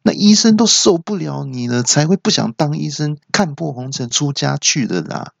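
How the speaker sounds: high-pitched indignant rant, easing toward the end; sputter, then rail at the caller like the nurse; imitated outraged cry. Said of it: "听了之后就大叫说". (学护士高声气急败坏地大叫)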